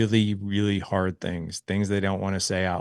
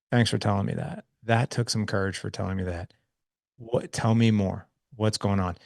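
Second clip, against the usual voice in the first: gentle thanks; 3 dB quieter than usual. Retold or imitated. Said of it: "And I was like".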